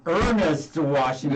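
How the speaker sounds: slow, measured "Ernest Washington"; formal name. Shown as a demonstration. Host corrects the singer's nickname, slow and formal. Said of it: "It sounds more formal".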